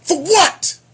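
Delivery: incredulous. Real, not acted. Incredulous outburst.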